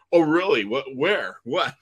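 quick, startled run of questions; acted bewilderment; puzzled questioning. New recruit searching for the stadium, mock bewildered. Acts out his puzzled reaction.

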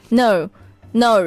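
"No" British, then Australian "naur"; British and Australian accents. Shown as a demonstration. Host compares British accent with Australian accent on one word. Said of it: "British accent很像啊".

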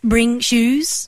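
robotic, even phone-menu voice; automated operator voice. Acted. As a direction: read it like a recorded phone system. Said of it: "use only my automated operator voice".

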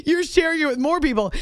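laughing through the words; giggling while giving advice. Retold or imitated. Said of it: "I was like".

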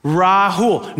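Rahul drawn into two clear parts. Retold or imitated. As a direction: say "Rahul" carefully as RA-HOOL, H sounded. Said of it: "Let me try this again".

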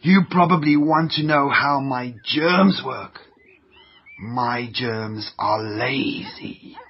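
lightly voiced nasty germ, sniffing and gloating; sneering germ villain. Jerry the Germ gloats to viewers, a lightly voiced sneering germ. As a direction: gloat like a villain who hates clean kids.

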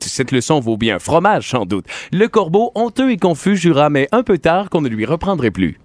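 a schoolboy reciting his poem for the table; fable recitation. Acted. Host recites the fable his father taught him, in a recitation voice. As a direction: recite the fable from memory, steadily.

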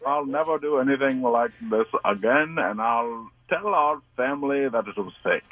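badly faked British accent. Shown as a demonstration. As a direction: stumble through an apology in mock British. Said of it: "south side of Britland".

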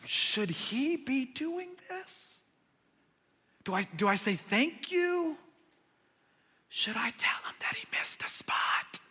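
hushed inner thoughts. Retold or imitated. Disciples thinking to themselves, hushed and baffled. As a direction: voice the disciples' silent doubts under the breath.

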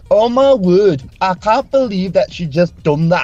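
retold outburst in a Geordie accent; imitated Geordie accent. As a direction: imitate an exasperated Geordie speaker. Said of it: "the accents".

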